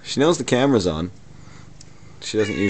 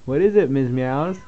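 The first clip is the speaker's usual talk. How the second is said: pet talk; 4 semitones higher than usual. Real, not acted. Talking to her cat.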